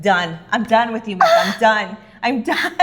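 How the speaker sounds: "done" punched on repeat, breaking into laughter; exasperated retold outburst. Viewer retelling how she threw the book, exasperated. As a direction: declare yourself finished, ending in a laugh. Retells giving up on the cast member.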